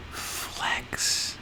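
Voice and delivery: breathy hushed whisper of the punchline. Real, not acted. Reviewer teasing the artist's showing off, whispered. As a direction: drop to a whisper on the last word.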